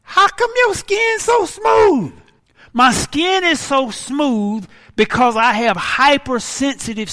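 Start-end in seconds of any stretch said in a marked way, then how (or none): 0.0-2.1 makeup artist admiring. Retold or imitated. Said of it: "She said".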